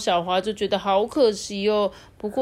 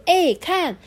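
excited pointing; 4 semitones higher, 4 dB louder than usual. Acted. Xiaohua points eagerly at ride.

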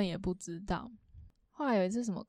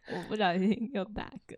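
hiccuping mid-sentence; small hiccup breaking the words. Real, not acted.

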